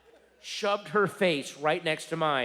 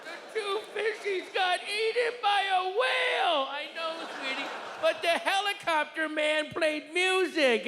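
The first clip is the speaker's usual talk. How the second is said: put-on kid voice; 12 semitones higher than usual. Comic voicing his daughter's Nemo complaint in a shrill shout. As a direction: squeal it like an excited toddler.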